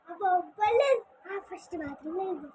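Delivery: tearful whining protest; crying. Real, not acted. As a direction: sob it out, upset. Child crying after losing. (ఏడుస్తూ)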